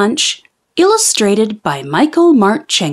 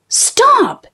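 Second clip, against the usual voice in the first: very high, piercing stop; yelled stop. Acted. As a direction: shout it over the whole class. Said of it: "yelled Missus Gomez".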